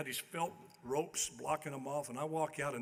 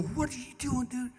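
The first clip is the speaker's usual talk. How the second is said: higher, louder alarmed cry; mock panic; 9 semitones higher, 4 dB louder than usual. Player seeing his huge opponent, higher panicked cry. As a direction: yelp in comic panic. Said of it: "I go".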